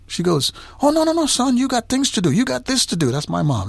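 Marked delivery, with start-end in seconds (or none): 0.8-3.1 lightly voiced mom, higher and fond; a hint of his mother brushing him off; gently imitating mom; mother's voice. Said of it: "that's how she talks".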